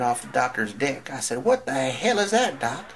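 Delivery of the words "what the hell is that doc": high, loud, shocked blurt; mock horror, pitch leaping up; alarmed question. Alarmed on seeing the thing.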